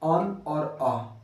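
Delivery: अन और अ said slowly and clearly; अन और अ dictated slowly; slow demo. Shown as a demonstration. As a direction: spell out अन और अ slowly. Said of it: "अयोगवाह पढ़ाए थे".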